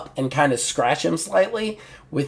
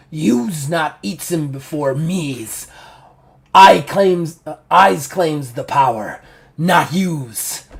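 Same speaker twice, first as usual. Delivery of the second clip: slow, deliberate creature voice; fanged monster; slower than usual. Acted. Game master as bloodied Fanged One claiming the power, monster voice. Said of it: "he just looks and he goes".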